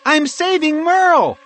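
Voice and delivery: high, loud urgent reply; high squirrel character shouting; shouting back. A narrator's reading. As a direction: shout it down while flying off. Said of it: "she shouted back".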